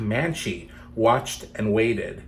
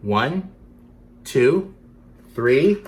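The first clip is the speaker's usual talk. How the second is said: building count, louder toward three; 2 semitones higher, 5 dB louder, much slower than usual. Pretend. Counting for the kids, rising to three. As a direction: count up to the big moment. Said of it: "on the count of three".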